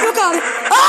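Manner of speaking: panicked yell of refusal; scared shout. Real, not acted. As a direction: yell it, terrified. Panics at monster in game. (korkuyla bağırarak)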